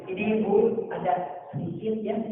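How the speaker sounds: soft, kindly offering of money; gentle giver. Retold or imitated. A generous host giving to a woman in need, soft and kind. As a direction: hand it over softly and kindly.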